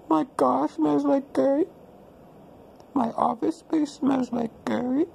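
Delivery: put-on a light comic Indian accent, held throughout. Vlogger in character telling viewers his day, in an Indian accent. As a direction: play a stereotyped Indian man in a mild Indian accent. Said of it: "why I talk like this?".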